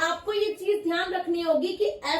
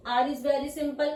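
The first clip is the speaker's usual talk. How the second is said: slow teaching; 3 semitones lower, slower than usual. Shown as a demonstration. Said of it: "teacher slow demo".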